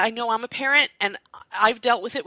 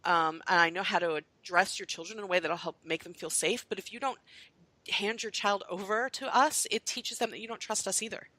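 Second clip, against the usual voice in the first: gentle plea; 6 dB quieter than usual. Retold or imitated. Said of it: "I used to tell parents".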